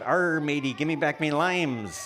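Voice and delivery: hammy pirate growl. Pretend. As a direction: play a cartoon pirate. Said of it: "how about".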